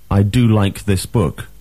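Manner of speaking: exclamation with "do" stressed; emphatic do. Shown as a demonstration. Teacher models an exclamation about a book, "do" stressed. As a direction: put the weight on "do". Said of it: "Emphatic do".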